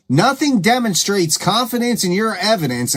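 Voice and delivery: mock the claim with exaggerated lilting emphasis; sarcastic. Real, not acted. Host repeating her point to viewers, openly sarcastic. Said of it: "I am being sarcastic".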